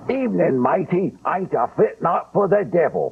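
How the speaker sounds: high, hammed-up Cockney sailor growl in a limey accent. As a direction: play a salty limey deckhand greeting a stranger. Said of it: "a limey accent for a sailor on a boat".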